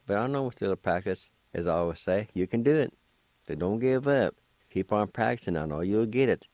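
upbeat teacher encouragement; encouraging. Real, not acted. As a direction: cheer them on not to give up. Encouraging learners at the end.

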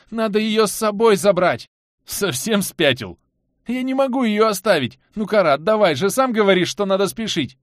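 high, loud pleading; desperate begging. Acted. Anton begs Karat to take Lilya, desperate plea. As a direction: beg with all you have.

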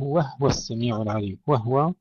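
"وهو" read wahwa, ha without a vowel; still ha. Shown as a demonstration. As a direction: close "وهو" on a vowelless ha before the waw. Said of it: "سكون الهاء في هذه الكلمات".

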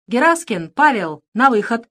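loud barked order to the prisoner; pirate summoning the boy out of the cave, loud command. A narrator's reading. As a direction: snap out the command like a pirate guard. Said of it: "приказал он".

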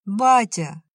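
громкий высокий крик вдогонку; позови отца изо всех сил. A narrator's reading. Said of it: "Закричал". (сын кричит вслед уходящему отцу)

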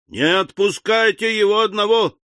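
high-pitched alarmed squeal; shrieking. A narrator's reading. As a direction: squeal it like frightened women. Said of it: "завизжали женщины". (женский визг)

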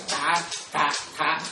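"tạ" said with the low, heavy Vietnamese nặng tone. Shown as a demonstration. Monk showing nuns how the heavy Pali T sounds. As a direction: drop each "tạ" low and heavy. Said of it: "cái chữ T đọc giọng nặng".

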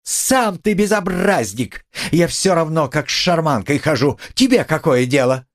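wounded fury; indignant retort. A narrator's reading. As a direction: throw the word back at him. Katerina retorts angrily.

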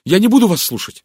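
high, loud refusal; agitated exclamation. A narrator's reading. Horrified Linda refuses to hear Poirot, crying out. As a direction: cry out in horror, shutting him out. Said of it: "воскликнула Линда".

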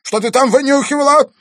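put-on old man furiously interrogating the girl; angry. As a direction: keep hammering her with the questions. Old man keeps raging.

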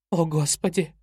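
gasped exclamation, mildly acted; a shocked little gasp of words. A narrator's reading. Hurt mother sees her nose bleeding, gasps in shock. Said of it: "ахнула она".

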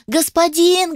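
high squeaky spider call; squeaky shout. A narrator's reading. The little spider squeaks over the noise to its master. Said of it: "паучок пытался всех перекричать".

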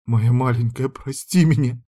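a touch of sobbing apology; mild tearful plea. Acted. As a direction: beg the child's forgiveness, lightly tearful. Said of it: "Заревела я".

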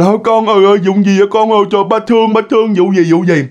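put-on hurried fussing over a crying child; acted-out parent asking what's wrong; worried parent. Parent soothing crying child in story.

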